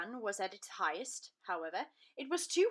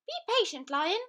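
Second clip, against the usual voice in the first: high, gentle mouse voice; calm the big lion down; reassuring mouse; 9 semitones higher, 7 dB louder than usual. Acted. Mouse soothing the netted lion, high and gentle.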